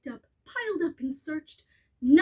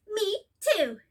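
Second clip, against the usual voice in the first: put-on a touch higher, cheeky child; slightly raised kid voice; lightly voiced little kangaroo; 5 semitones higher than usual. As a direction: taunt like a small copycat. Baby kangaroo echoes mother.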